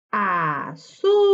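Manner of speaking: load the voice onto the ZÚ of "Azúcar"; stressed syllable stretched. Shown as a demonstration. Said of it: "donde se carga la voz".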